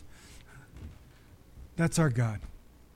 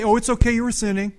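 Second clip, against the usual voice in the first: mock casual dismissal; 4 semitones higher, 4 dB louder than usual. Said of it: "God did not say".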